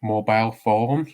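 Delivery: mobile phone said in a Welsh accent; mock Welsh accent. Shown as a demonstration. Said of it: "with a mock Welsh accent".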